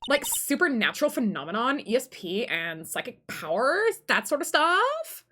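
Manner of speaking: put-on Valley Girl with rising, stretched endings; vague, ditzy Valley Girl explanation; Valley Girl accent. Girl describes her college studies, Valley Girl accent. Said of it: "hear my Valley Girl accent".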